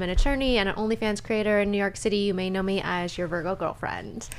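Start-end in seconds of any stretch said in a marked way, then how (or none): 2.2-4.3 playful whisper. Acted. Playful whispered podcast intro.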